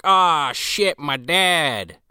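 lightly acted "oh crap" moment; mock dismay. Girl sees her dad show up, mock dismay.

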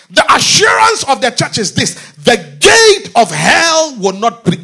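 loud, high preaching declaration; first loud run at the line; preaching shout. Real, not acted. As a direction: proclaim it to the congregation. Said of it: "oh my God".

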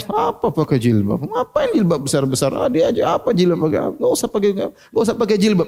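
sneering voice, rising high by the end; mocking scoffer. Preacher voices someone scorning the hijab, mock sneer. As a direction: scoff at the headscarf like a mocker.

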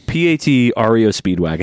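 laughing through the spelling; spelled out, cracking up. Pretend. Joke spelling into band name.

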